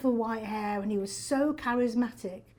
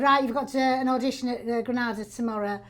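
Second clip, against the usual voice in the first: brisk northern English agent, slightly raised; northern English accent. Retold or imitated. Agent phones actress about an audition, northern English accent. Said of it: "I had a northern agent".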